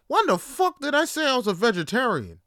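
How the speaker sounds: high, indignant outburst; outraged retort. Retold or imitated. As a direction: fire it back in disbelief.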